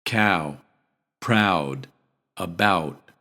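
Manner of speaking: cow, proud, about with ow; word list demo. Shown as a demonstration. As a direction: say each ow word clearly. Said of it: "any English word that contains that sound".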